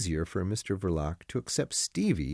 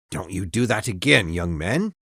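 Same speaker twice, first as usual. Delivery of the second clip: a hint of an old driver scolding, a bit louder; mild driver's warning; 5 dB louder than usual. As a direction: gently warn the young man. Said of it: "said the driver".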